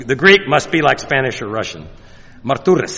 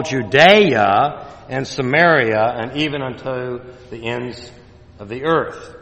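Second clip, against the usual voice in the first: scripture reading. Shown as a demonstration. Preacher quoting Acts to the congregation, solemn reading. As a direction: read it like holy writ. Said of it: "And I'll just quote it".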